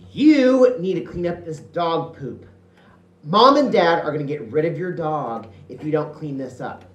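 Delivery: a bossy sister scolding her little brother. Retold or imitated. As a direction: nag him like a know-it-all big sister. Voicing bossy older sister.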